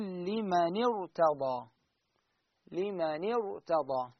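slow لمن ارتضى with a heavy r; recitation demo. Shown as a demonstration. Teacher slowly recites لمن ارتضى for the class. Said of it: "فش نقراها".

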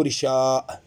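رشاء ending in a glottal stop; final hamza. Shown as a demonstration. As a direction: close رشاء on a hamza after the long a. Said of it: "لا ينتهي بهمزة، ينتهي بألف فقط". (رشاء بهمزة في آخرها)

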